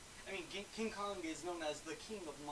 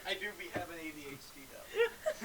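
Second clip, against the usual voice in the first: laughing. Real, not acted. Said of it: "hopped up on a little bit of sugar".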